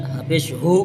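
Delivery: teacher showing a throaty हू; throat ha. Shown as a demonstration. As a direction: push the ह of हू out from the throat. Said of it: "हलक से अदा होता है".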